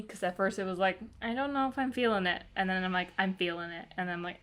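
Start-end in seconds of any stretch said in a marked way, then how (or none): 1.2-2.4 higher-pitched, quick, doubtful quote; unsure. Retold or imitated. Reader reenacting her roller coaster reaction to the book, unsure. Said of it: "kind of a roller coaster". 3.2-3.9 settled, everyday-pitched quote; won over. Retold or imitated. Reader reenacting her roller coaster reaction to the book, won over. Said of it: "kind of a roller coaster".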